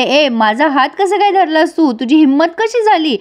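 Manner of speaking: lightly hammed-up protest; mock indignant yell. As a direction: play-act a woman calling out for her parents. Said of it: "ती ओरडते आणि म्हणते".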